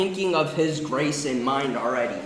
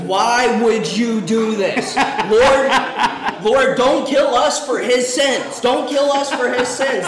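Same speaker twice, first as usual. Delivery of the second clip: much higher and louder, slow, begging; desperate pleading; 8 semitones higher, 8 dB louder, slower than usual. Acted. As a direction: cry out to God for mercy. Sailors beg God in storm.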